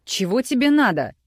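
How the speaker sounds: high, loud yell down the phone. A narrator's reading. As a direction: bellow it at her. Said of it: "проорал Роман Иваныч". (крик в трубку)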